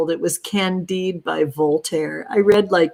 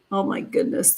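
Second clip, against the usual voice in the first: whispered gasp; 6 dB quieter, faster than usual. Real, not acted. Reacting to eye swellings.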